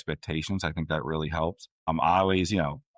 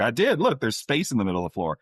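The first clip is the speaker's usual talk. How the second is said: mock defensive kid; 5 semitones higher than usual. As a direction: imitate a kid insisting on innocence. Acted child protesting to parent.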